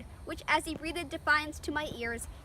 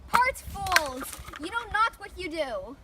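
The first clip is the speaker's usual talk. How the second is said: calling out; 3 semitones higher, slower than usual. Acted. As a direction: shout to stop them. Peacemaker calls out to stop fight.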